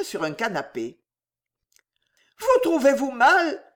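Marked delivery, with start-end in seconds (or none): 2.4-3.6 high, worried question; raised anxious voice of a lady. A narrator's reading. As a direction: ask anxiously, pitched well up. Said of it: "demanda Rachel avec anxiété".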